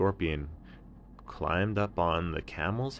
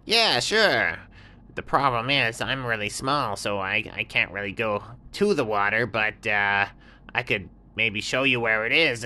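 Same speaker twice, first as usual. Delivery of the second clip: high, sly little scorpion; high little scorpion voice, offering help; 4 semitones higher, 5 dB louder than usual. Acted. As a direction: squeak it out like a small sly critter.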